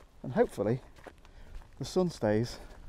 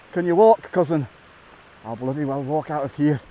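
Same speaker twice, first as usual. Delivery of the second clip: lightly put-on Highlander accent; terrible film accent. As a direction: attempt a bad Highlander movie accent. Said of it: "Terrible accent, terrible accent".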